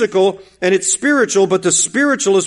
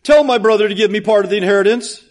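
the brother cries out to the Lord for the inheritance; pleading man. Retold or imitated. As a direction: act the man who jumps up and begs for his share. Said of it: "One jumps up and says".

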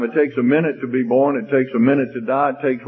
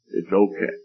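tender comforting; 3 semitones lower than usual. Acted. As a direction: comfort a crying child, low-key. Mother comforts muddy crying son.

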